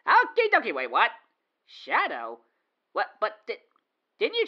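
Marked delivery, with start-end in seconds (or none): 0.1-0.7 cheery. Acted. Cheery repeat before realizing.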